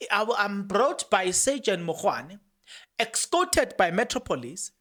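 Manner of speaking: slow, careful quoting. Shown as a demonstration. Rereading the accused's reply, very slow. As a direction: drag each word out clearly. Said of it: "let me say it very slow".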